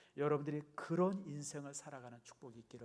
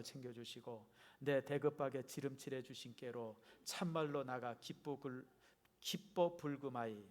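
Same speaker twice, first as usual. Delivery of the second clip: Jeolla dialect. Acted. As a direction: have a go at reading like a Jeolla local. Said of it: "우리 전라도 버전 또 읽어봅니다". (어설픈 전라도 사투리로)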